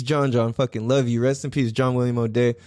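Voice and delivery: ordinary delivery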